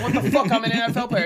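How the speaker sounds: indignant player. Retold or imitated. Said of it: "they're gonna be like".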